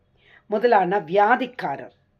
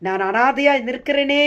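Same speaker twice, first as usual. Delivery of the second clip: anguished lament; 4 semitones higher than usual. Acted. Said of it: "தவிக்கிறாயா?".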